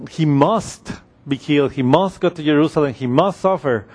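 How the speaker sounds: "must" picked out firmly in each phrase; stress on MUST. Shown as a demonstration. Preacher pointing listeners to the word, stress on "must". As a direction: lean on "must" every time it comes. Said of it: "notice the word, he must".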